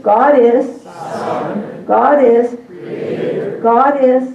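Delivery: repeated classroom cue; prompting call. Shown as a demonstration. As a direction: call out God is each time. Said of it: "then you say what it is".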